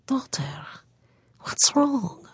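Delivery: hushed, tender question; soft worried mother. A narrator's reading. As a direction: ask gently, almost whispering. Mother gently asks crying daughter.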